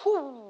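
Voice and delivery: soft, airy "whoo" noise; woozy "whoo". Retold or imitated. Showing what the glasses do, soft whoo. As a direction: let out a quiet falling whoo. Imitates disorienting effect of glasses.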